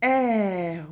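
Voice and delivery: "R" said as a long "èr"; slow reading model of "R" as "èr"; syllable sounded out. Shown as a demonstration. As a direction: draw out the open "è" into the r of "R". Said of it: "ça va faire le son est".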